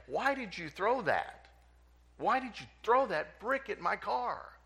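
high, loud furious demand; angry shout. Acted. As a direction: bark it at the kid who damaged your car. Angry car owner confronts child.

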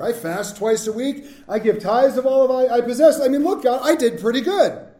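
self-satisfied boasting, rising a little in pitch; smug self-praise. Acted. Preacher voicing a proud Pharisee to God, smug. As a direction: list your good deeds to God, proud of yourself.

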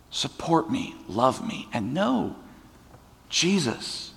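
hushed, almost whispered request; soft plea. Acted. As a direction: ask for love under your breath. Jesus asks softly for support.

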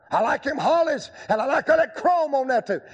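high, chuckling South Carolina Southern lingo; Southern drawl. Retold or imitated. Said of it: "in his South Carolina Southern lingo".

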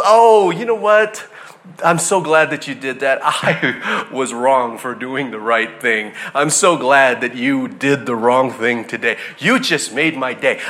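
slow, syrupy mock thank-you, sinking low; mock sweet reply. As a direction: thank the driver who cut you off, overly sweet. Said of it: "the response was".

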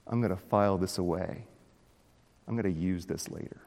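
a quiet, sly villain muttering his plans; softly scheme like Jafar; Jafar-like scheming. Retold or imitated. Preacher voicing Doeg as a scheming villain, quiet and sly. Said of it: "like Jafar in Aladdin".

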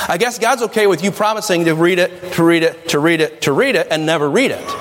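sarcastic mock approval; sarcasm. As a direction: repeat the promise in a sarcastic singsong. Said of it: "Sarcasm. Ready? Hang in there".

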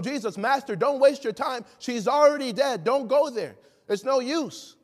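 acted-out urging to give up; urgent discouraging plea. Preacher voices people telling Jesus the girl is dead, urgent.

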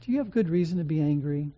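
soft, quick and gentle question. Retold or imitated. God gently questioning angry Jonah, soft and tender. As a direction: ask it softly, like coaxing a sulking child. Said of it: "God comes to him very gently and says".

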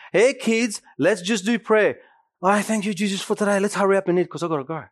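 a lightly voiced rushed parent, racing the end; mock hurried dad. Preacher mocking a dad rushing grace, fast at the end. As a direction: gabble the prayer to get out the door.

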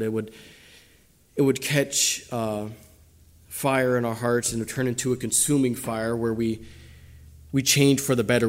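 a pastor leading the congregation in prayer; closing prayer. Real, not acted. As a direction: pray it sincerely for the whole room.

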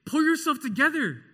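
harsh parental scold. Retold or imitated. Parent snapping at a crying child, loud exasperated scold. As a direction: bark it like a fed-up parent.

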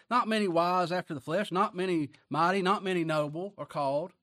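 emphatic preaching. Acted. Preacher quoting scripture with force.

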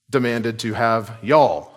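"y'all" said as one Southern syllable yawl, falling; Georgia y'all. Shown as a demonstration. Georgia preacher recasting Jesus' words for his flock, light Southern y'all. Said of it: "as we would say sometimes in Georgia".

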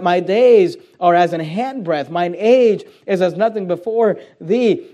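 "my days are as an handbreadth" drawn out slowly, stressing "days" and "age"; slow right down and lean on each phrase; slow emphatic quote. Shown as a demonstration. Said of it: "what he's emphasizing".

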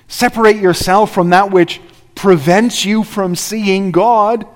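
building preacher's charge. Retold or imitated. Joshua's charge to the people.

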